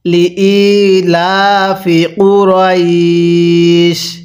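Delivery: very slow, drawn-out melodic recitation; slow chanted tajweed reading; Quran recitation. Shown as a demonstration. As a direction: recite each syllable long and sung. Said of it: "এবার আমার সাথে মিলিয়ে পড়ুন".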